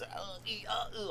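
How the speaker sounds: high breathy whimpers; whimpering sounds. Retold or imitated. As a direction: whimper on the floor. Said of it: "whiny Luke boy".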